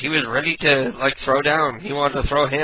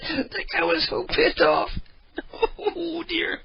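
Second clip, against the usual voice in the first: laughing; 12 semitones higher, 6 dB quieter, slower than usual. Real, not acted. Still laughing after prank.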